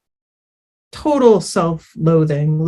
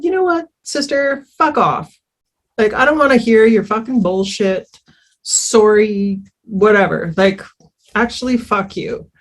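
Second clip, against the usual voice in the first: imitating angry sister; 2 semitones higher than usual. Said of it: "And she said".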